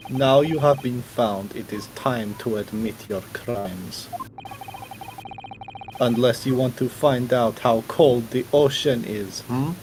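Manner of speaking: put-on a Russian accent losing its grip; Russian sliding to Jamaican. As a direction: fake Russian accent drifting toward Jamaican. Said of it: "this is slowly shifting to Jamaican".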